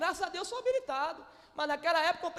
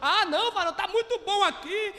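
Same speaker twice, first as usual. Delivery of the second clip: pleading to leave while laughing, louder; laughing plea; 2 semitones higher, 4 dB louder than usual. Retold or imitated. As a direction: laugh through the begging.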